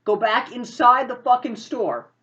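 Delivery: high, loud urgent ordering; acted agitated insistence. Carrie orders driver away, quarrel.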